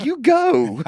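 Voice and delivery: high, loud panicked "you go"; high loud urgent shove of words; frantic push. Retold or imitated. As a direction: blurt it out in a panic. Partner pushing him in.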